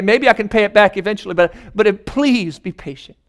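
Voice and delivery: begging in a hushed, faltering voice; stammering servant pleading for time; desperate pleading. Acted. Servant on his knees begs the king, hushed and faltering.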